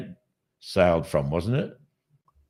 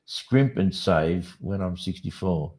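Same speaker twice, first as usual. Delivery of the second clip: careful reread; 3 semitones lower, slower than usual. Shown as a demonstration. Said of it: "I'm not reading it right".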